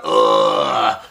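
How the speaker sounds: low, drawn-out choking groan; barked "ugh". Acted. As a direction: let out a low dying "ugh". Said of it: "he let a bark".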